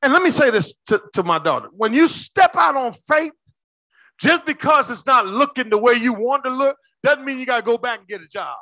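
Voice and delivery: impassioned preaching. Real, not acted. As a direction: urge them to step out boldly. Preaches at raised force.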